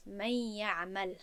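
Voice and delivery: slow «من یعمل», nun hummed into the doubled Y; merging with ghunnah. Shown as a demonstration. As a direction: hold the nasal hum on the merge in «من یعمل». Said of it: "با غنه". («من یعمل» با ادغام و غنه)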